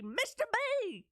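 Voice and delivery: high, slow Texas drawl stretching "B" into many syllables; drawn-out Texas B. Retold or imitated. Schoolgirl calling her drama teacher, stretching "B" in a Texas drawl. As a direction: draw the "B" out long in a thick Texas twang. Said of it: "with the sixteen syllables that made up the letter B".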